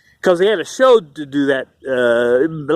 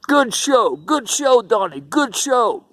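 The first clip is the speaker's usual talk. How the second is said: higher, lightly put-on Italian mafia accent, slowing on the last phrase; a hint of a movie mobster's praise; mock Italian mafia accent; 4 semitones higher, slower than usual. Mafia men in the dressing room praising Donnie, mock Italian mafia accent. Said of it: "They always pinch your cheek, the mafia".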